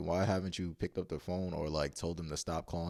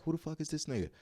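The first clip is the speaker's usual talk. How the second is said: mock outrage in a raised pitch; retold yelling; 8 semitones higher, 3 dB quieter, faster than usual. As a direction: imitate an indignant man demanding answers. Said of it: "he starts yelling".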